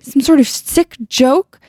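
high, drawn-out disbelief; upset cry. Acted. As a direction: cry it out slowly, incredulous. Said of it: "Shannon cried".

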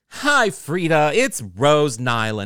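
showy, welcoming phone greeting, loud and drawn out; Rose Nylund, theatrical. Retold or imitated. Rose greeting Frida on the phone, theatrical and welcoming. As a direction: stretch every word into a gushing hello. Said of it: "very theatrical and showy and welcoming".

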